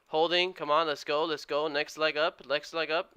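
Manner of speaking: urging it on. Real, not acted. Trader urging the stock to make its next leg, excited. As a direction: egg it on eagerly, pitch up.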